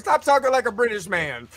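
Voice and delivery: laughing through the line; amused mock scold; laughing son. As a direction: giggle as you scold. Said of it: "my son was like".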